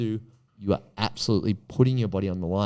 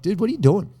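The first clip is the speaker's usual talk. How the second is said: incredulous exclaim; 10 semitones higher, 5 dB louder, faster than usual. Retold or imitated. Retelling scolding a young gambler.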